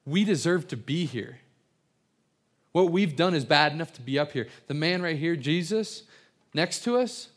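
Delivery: mildly acted yell, insistent and emphatic; retold yell. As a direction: call it over as the thief, without a full shout. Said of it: "he yells over to him".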